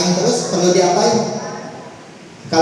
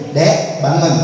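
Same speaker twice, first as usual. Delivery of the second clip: gentle wake-up; slower than usual. Shown as a demonstration. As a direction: wake them kindly, no pressure. (ibu membangunkan anak dengan lembut)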